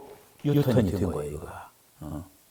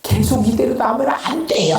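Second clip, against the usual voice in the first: higher, pleading lament; lamenting plea; 10 semitones higher, 3 dB louder than usual. Acted. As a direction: urge God with mock sighs. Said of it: "하면서 막 탄식하는 거야".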